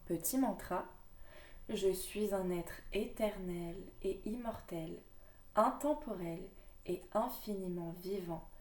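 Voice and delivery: measured, earnest reading of the card text; card reading aloud. Acted. Reading her oracle card to viewers, earnest reading voice. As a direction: read the message to viewers like an oracle.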